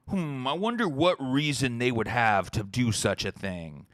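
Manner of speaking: mock-puzzled, drawn-out musing; sarcastic wondering. Mock puzzlement at meme posters.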